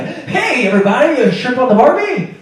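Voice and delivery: high, loud bad Australian accent; a weak stab at Australian; hammed-up Australian accent. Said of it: "I'm gonna go for Australia".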